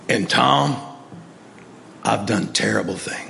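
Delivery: low, soft imitated confession; grave confession. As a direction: confess as the ailing friend, low and halting. Friend's grave confession on phone.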